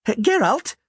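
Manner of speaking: high, alarmed call for help; Dandelion's shout. A narrator's reading. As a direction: cry out the name in fright. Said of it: "Dandelion shouted".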